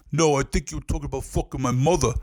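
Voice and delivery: imitated Italian-American tough guy; confrontational, lightly put-on Italian-American accent; ginzo accent. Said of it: "Like, real ginzo".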